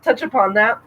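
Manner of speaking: hiccuping mid-phrase; hiccups. Real, not acted. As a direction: push through the hiccups. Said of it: "I have the hiccups".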